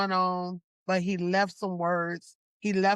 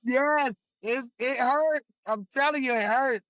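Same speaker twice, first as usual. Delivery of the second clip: higher, emotional but pushing through; real emotion, raised pitch; tearful encouragement; 4 semitones higher than usual. Real, not acted. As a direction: speak through tears to lift them. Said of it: "Let me dry my eyes".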